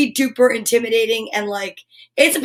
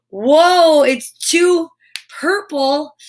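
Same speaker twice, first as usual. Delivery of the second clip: surprised whoa; 4 semitones higher, 4 dB louder, much slower than usual. Real, not acted. Second vitamin revealed.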